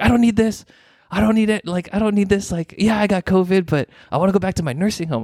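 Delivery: high mock yell of a stubborn patient; retold yelling. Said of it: "he starts yelling".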